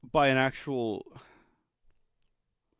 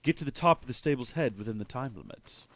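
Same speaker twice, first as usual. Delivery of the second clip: a slightly lowered, solemn oracle chicken; deep chicken voice. Acted. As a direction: speak as a wise old chicken testing the hero. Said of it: "why the chicken has such a deep voice".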